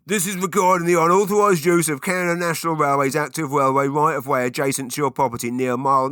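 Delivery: officious British letter-writer reading without a break; relentless British-accented reading of a legal notice. Acted. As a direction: put on a British official's voice, loud at first. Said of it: "British accent for this, but it's how I imagine the person that wrote it speaking".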